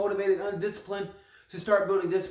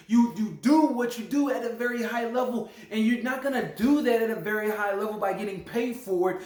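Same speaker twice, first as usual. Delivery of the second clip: emphatic, slightly raised rant; impassioned rant. Real, not acted. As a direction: go on a little heartfelt rant. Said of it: "gonna go on a little rant".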